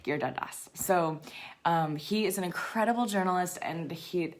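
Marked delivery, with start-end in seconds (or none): 0.0-0.7 "Giridharadas" repeated as one word, hard G; correct name pronunciation. Shown as a demonstration. Host repeating the author's surname correctly, "Giridharadas" with a hard G. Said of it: "but it's pronounced".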